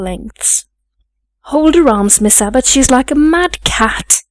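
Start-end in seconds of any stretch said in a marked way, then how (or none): 1.5-4.2 higher-pitched urgent order; alarmed maid. Acted. Maid calls to Miss Abbott to hold a struggling girl, alarmed. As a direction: urgently call for help holding her.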